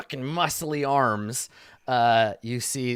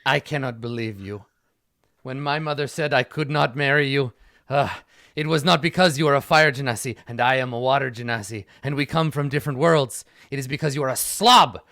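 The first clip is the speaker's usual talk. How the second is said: mild indignant rant; 4 dB louder, faster than usual. Acted. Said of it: "and he says".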